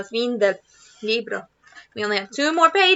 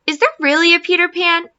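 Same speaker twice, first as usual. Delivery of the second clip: put-on curious child; 4 semitones higher, 4 dB louder than usual. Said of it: "asked John".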